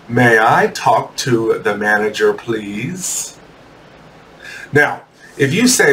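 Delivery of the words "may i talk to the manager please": polite request. Acted. Customer with a cold hamburger asking for the manager, polite. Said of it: "You politely say".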